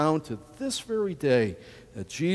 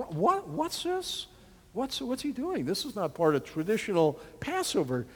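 high, bewildered questioning; puzzled disciples; 4 semitones higher, 4 dB quieter than usual. Acted. Preacher voicing the puzzled disciples at the Supper, bewildered. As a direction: voice the disciples' confusion.

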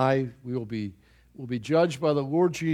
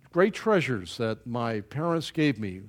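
ordinary talk

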